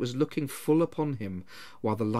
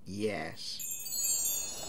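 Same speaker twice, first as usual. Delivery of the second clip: whispered, uneasy one-word reply; a brief, reluctant answer; uneasy curt yes; 6 semitones lower, 11 dB quieter than usual. Acted. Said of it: "answered briefly".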